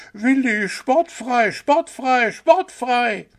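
high, loud repeated cheer; desperate cheering. A narrator's reading. The fawn cheering her favourite owl, loud and desperate. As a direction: cheer him on desperately from the side. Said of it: "feuerte ... verzweifelt an und rief".

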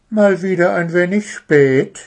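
a lightly voiced high owl teacher; lightly voiced owl teacher, chiding the late pair. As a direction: tease the late pupils as the owl.

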